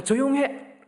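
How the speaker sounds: high snapped shut-up; angry hush. Retold or imitated. Father silencing his child mid-word, high angry yell. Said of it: "애가 뭐라고 말을 하려고 그러는데".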